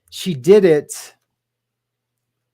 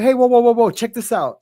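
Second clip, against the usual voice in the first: heated; 6 semitones higher than usual. Retold or imitated. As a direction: push back hard, retelling a heated call. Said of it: "I got heated".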